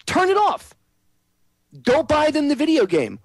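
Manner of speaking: high, whiny nagging-mom voice, way up top; mock soccer mom. Host mocking soccer moms who want TV off, whiny high voice. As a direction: parody a fussy soccer mom scolding. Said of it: "these goddamn soccer moms".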